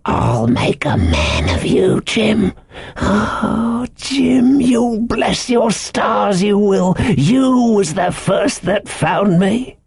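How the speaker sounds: high, slow, fervent sailor; eccentric castaway, excited. A narrator's reading. Ben Gunn's voice.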